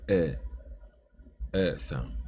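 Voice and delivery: "eh" like the E in men; "eh" said low, as in men; eh vowel. Shown as a demonstration. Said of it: "of the E in the word men".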